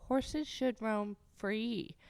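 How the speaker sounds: mocking quote. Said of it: "They always go".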